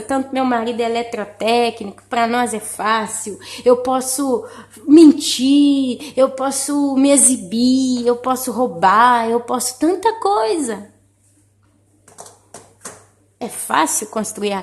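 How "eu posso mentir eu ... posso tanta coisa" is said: emphatic preaching. Real, not acted.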